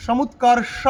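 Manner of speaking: সমুৎকর্ষ with the tongue curled back on ষ; retroflex ষ. Shown as a demonstration. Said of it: "জিভকে উল্টে". (সমুৎকর্ষ-এর ষ জিভ উল্টে)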